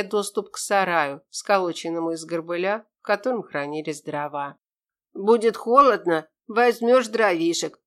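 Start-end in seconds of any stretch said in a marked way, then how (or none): 5.1-7.8 creaky voice. Acted. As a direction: creak it out like a stingy old man. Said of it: "скрипучим голосом сказал мужичок".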